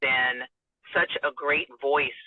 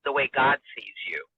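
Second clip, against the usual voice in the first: slow, wise counsel. Retold or imitated. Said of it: "he said to me".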